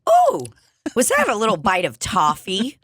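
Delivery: very high squealing ooh of discovery; delighted surprise. Retold or imitated. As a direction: act thrilled by a tiny treat. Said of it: "it's almost like".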